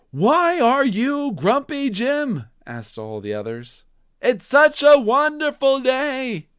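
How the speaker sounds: everyone nagging together; chorus asking. Acted. All the others asking Jim, high and loud.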